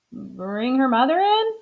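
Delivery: Amelia repeating the order as a puzzled question; puzzled echo. Acted. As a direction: echo the doctor, baffled. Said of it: "said Amelia Bedelia".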